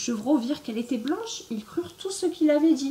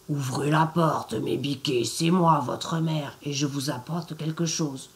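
a lightly lowered rough wolf voice, faking mum; gruff wolf; 5 semitones lower than usual. Acted. Wolf at the door poses as the mother, in a low gruff voice. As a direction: growl it low like a wolf pretending. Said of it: "à sa grosse voix rauque".

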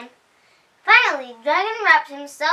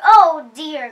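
panicking pig; 3 semitones higher, 11 dB louder than usual. A narrator's reading. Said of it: "cried the pig".

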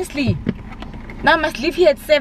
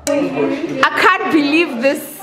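shocked disbelief; slower than usual. Real, not acted. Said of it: "I'm in shock".

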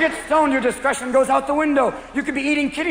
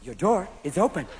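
talking car; 4 semitones lower, 6 dB quieter than usual. Acted. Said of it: "new Japanese cars where you open the door and it goes".

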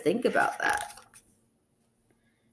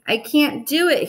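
discouraged cry; 6 semitones higher, 3 dB louder than usual. A narrator's reading. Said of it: "he said".

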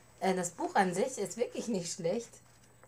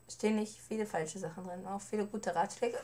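hoarse voice. Real, not acted. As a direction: voice giving out, hoarse. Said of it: "Ich bin heiser".

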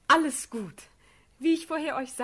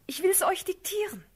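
urgent whisper; 6 semitones higher than usual. Acted. Urging the prince to write.

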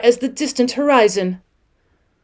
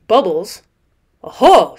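bright inviting oho, louder at the end; cheery chirp; 3 semitones lower, 5 dB louder than usual. A narrator's reading. Rat cheerily hailing the otter, a light chirp. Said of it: "chirped cheerily with an inviting sort".

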